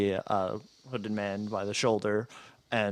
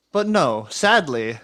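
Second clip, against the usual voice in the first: lightly voiced NPC; 3 semitones higher, 5 dB louder, slower than usual. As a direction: raise the voice a little for the stranger. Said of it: "and he goes".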